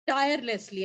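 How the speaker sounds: tirelessly leaned on a little harder; emphasize tirelessly to thank the unpaid team; stress on tirelessly. Real, not acted. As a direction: give tirelessly a firm push. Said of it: "emphasizing the word tirelessly".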